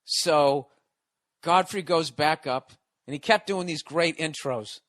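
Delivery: usual speaking voice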